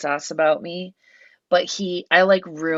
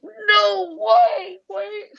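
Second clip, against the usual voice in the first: very high-pitched squeal of disbelief; starstruck disbelief; 4 dB louder, much slower than usual. Retold or imitated. She discovers the poker is a star, squealed disbelief. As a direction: squeal it, stunned by who it is. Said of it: "I just, like, couldn't believe".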